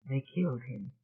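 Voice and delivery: KILLED said low, faint and falling; They killed him, almost no voice; barely audible. Acted. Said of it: "barely audible".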